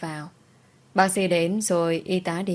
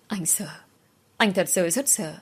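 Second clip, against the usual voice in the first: tearful whisper. A narrator's reading. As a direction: breathe it out like a broken husband. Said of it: "Anh vừa khóc vừa nói". (thì thầm sợ hãi, nghẹn ngào)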